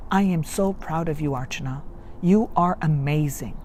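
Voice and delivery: put-on softly reassuring your inner child; tender praise to inner child. Shown as a demonstration. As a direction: speak to your younger self with love. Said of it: "So this is how I say it".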